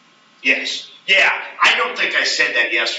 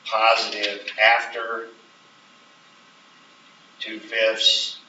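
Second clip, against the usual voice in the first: slow, deliberate wording; emphasis on always; 3 semitones lower, much slower than usual. Shown as a demonstration. Teacher dictating the model answer slowly. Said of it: "the emphasis on the word always".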